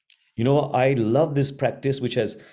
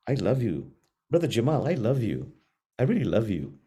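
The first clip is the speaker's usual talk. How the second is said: tender self-talk. Shown as a demonstration. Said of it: "if you repeat that to yourself".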